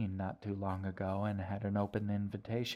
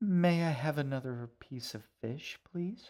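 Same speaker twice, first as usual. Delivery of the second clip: sweetest, sugary, polite, high-pitched little voice; 6 semitones higher, 4 dB louder than usual. G speaks to the shaggy man in her sweetest voice. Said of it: "G asked in her sweetest voice".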